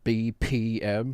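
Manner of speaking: slow B P M with a hard B. Shown as a demonstration. Explaining a syllable from the song, hard B in B P M. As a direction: punch the B in B P M, letters spaced out. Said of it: "where I hit a hard B".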